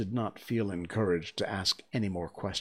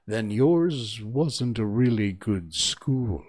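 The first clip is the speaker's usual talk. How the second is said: slow and relieved; 3 semitones higher, 7 dB louder, slower than usual. Acted. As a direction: let out a breath of relief. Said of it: "tone of great relief".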